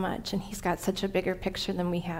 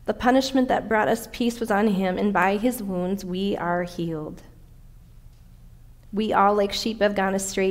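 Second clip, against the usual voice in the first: measured scripture reading, each phrase opened firmly. Acted. Preacher reads Isaiah's prophecy to the congregation, scripture reading. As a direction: read the prophecy aloud, easing down at phrase ends.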